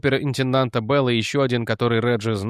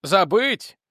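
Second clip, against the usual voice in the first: higher, incredulous outburst; young man crying out; 7 semitones higher than usual. A narrator's reading. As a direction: fling the word back at her. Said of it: "выкрикнул юноша".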